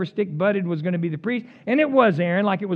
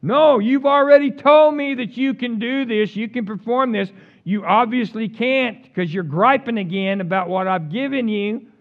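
stern God; 4 semitones higher, 6 dB louder than usual. Retold or imitated. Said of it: "he's like".

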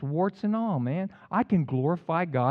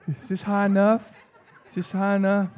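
laughing mock husband; 4 semitones higher than usual. Mock henpecked jumping husband.

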